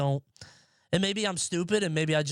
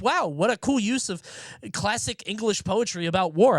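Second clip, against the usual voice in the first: mock wowed; 4 semitones higher than usual. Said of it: "That shit was like".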